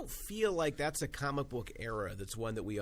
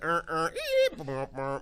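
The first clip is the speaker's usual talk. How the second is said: imitated sound effect; 3 semitones higher, 6 dB louder, slower than usual. Podcast host mimics the show's sound effect, imitated noises. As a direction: mimic a jingle with your mouth.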